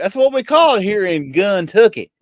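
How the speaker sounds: broad Kentucky country accent; exaggerated country accent. Shown as a demonstration. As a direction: show off the local country accent. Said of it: "I'm talking like this".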